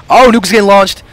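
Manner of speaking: sudden loud, high shout of excitement; excited. Real, not acted. Caster yelling to viewers as nuke launches, excited. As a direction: blurt it out as the nuke goes up.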